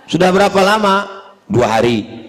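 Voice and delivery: terse question and toneless answer; mock WhatsApp exchange; no intonation. Shown as a demonstration. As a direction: trade words like text messages. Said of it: "tak ada intonasi".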